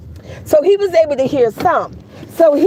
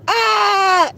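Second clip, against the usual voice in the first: mock yell out; 7 semitones higher than usual. Retelling the student's yell at the teacher, a quick mock cry. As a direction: cry out a sudden "Ah". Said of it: "yell out".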